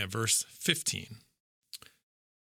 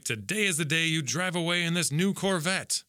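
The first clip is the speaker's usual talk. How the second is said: higher, lightly hammed-up dealer voice; car salesman pitch; 5 semitones higher than usual. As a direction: sell it like a car ad. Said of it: "Kinda like".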